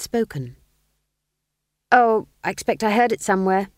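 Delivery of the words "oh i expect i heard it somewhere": vague. Acted. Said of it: "she said vaguely".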